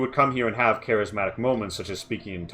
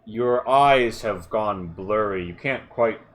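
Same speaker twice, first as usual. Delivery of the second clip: game master's scene setting; 4 dB louder than usual. Acted. Game master describes approaching sounds to a player, suspenseful narration. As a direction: let each sound creep in between pauses.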